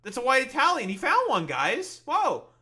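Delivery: loud high mock discovery; excited sarcastic shout. Real, not acted. Streamer mocks the video's lucky find with a loud high shout. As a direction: yell it like a big find. Spotting white Italian in video.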